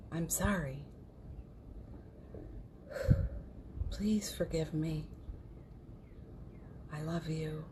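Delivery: soft meditation voice with a sighing breath; quiet, unhurried recitation; guided mantra. Real, not acted. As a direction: gently recite the healing phrases, breathing out between them. Leads a Ho'oponopono recitation.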